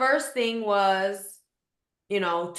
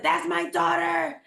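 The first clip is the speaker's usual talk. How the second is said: put-on high, urgent recognition of her child's voice; alarmed realization; 8 semitones higher than usual. Mother hearing her daughter during the attack, high and urgent. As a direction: snap alert at the sound. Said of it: "And I just said".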